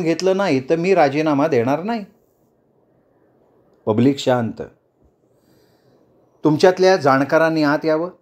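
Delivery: lightly voiced leader daring the crowd; challenging politician. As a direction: she puts pointed questions to the protesters. Speech challenging the protesters.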